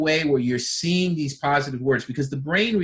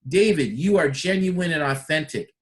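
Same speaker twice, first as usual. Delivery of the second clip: emphatic compliment; with an exclamation point; 3 semitones higher than usual. Shown as a demonstration. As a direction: give it a stamp of approval. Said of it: "Exclamation point".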